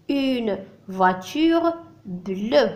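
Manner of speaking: very slow "Une voiture bleue"; drawn-out teacher demo; slow model answer. Shown as a demonstration. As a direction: repeat it slowly for the class. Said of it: "Elle est de quelle couleur".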